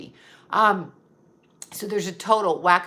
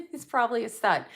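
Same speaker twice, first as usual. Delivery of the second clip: "He's probably a slut" said through a laugh; laughing repeat; 4 semitones higher than usual. Shown as a demonstration. Repeating the joke about her ex while laughing. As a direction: laugh it out as you say it again.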